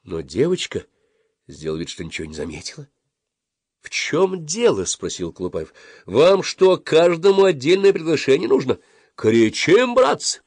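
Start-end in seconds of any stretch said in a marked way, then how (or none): 3.8-4.9 high, slow question; indignant demand. A narrator's reading. Boy leader scolds his silent friends, indignant. 6.1-10.4 high, loud indignant harangue; scold, then rally them to yell; exasperated scolding. A narrator's reading. Boy leader berates his silent friends, exasperated.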